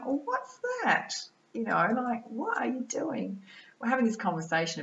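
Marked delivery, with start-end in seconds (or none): 0.0-3.4 high-pitched, drawn-out retold question; slow, high mock bewilderment; puzzled surprise. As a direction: retell a curious "what's this?" reaction, pitched right up. Retold puzzled reaction to spirit's gift.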